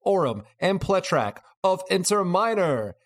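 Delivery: lightly hammed carnival barker pitch; snake oil seller. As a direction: drum up the crowd like a fairground huckster. Carnival sales pitch summary.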